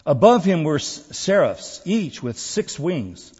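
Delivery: measured, emphatic Bible reading; scripture reading. Acted. Preacher reading Isaiah's temple vision to church, emphatic scripture reading. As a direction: read it out solemnly to a congregation. Reads scripture aloud to congregation.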